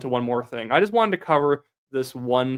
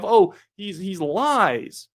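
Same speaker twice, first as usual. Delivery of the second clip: higher-pitched mimicry of a critic; mock accusation; 5 semitones higher, much slower than usual. Host mimicking Poilievre's critics, mock accusation. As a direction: parrot the accusers in a raised pitch.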